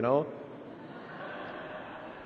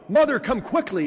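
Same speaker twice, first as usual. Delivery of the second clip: put-on higher, louder child's call for his mother; excited shout; 7 semitones higher, 4 dB louder than usual. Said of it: "Then he shouted".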